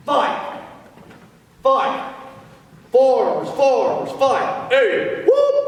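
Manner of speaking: yell leader shout. Shown as a demonstration. Cadet demonstrating the farmers fight yell, shouting. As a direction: bellow it to the stands. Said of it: "Now here's the yell".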